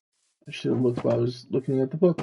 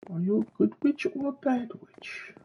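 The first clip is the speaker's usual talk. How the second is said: sing-song witch greeting; 11 semitones higher, 6 dB quieter than usual. Pretend. Calling out to unseen witch.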